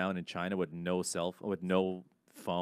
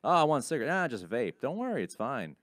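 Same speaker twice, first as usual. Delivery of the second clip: mock vaping enthusiast; 5 semitones higher, 3 dB louder than usual. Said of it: "Now it's like".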